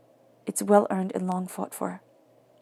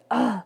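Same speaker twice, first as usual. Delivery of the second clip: exasperated "ugh"; mildly acted groan of frustration; frustrated groan; 2 semitones higher than usual. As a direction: let out a fed-up groan. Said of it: "being so frustrated with people".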